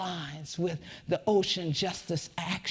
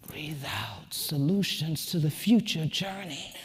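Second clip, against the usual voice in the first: guided breathing. Acted. Leads the audience in breathing.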